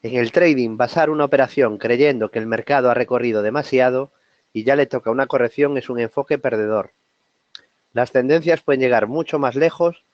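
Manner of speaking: steady read-aloud with brief pauses; fluent quote reading. Real, not acted. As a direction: read it through in connected phrases. Same quote read a second time.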